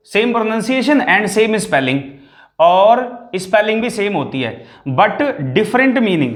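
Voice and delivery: words laid out very slowly, one by one; slow it right down so they can copy; slow dictation. Shown as a demonstration. Teacher giving pupils the definition, slow and deliberate.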